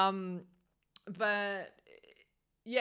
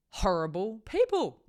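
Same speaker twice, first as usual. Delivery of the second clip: whispered aside; 4 semitones higher than usual. Real, not acted. Aside about bad bosses.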